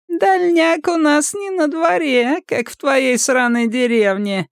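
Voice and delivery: very high, slow squeaky sneer; mock him in a squeaky voice. A narrator's reading. Мазур пискляво издевается над деревенским Сомиком. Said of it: "пискляво заметил Мазур".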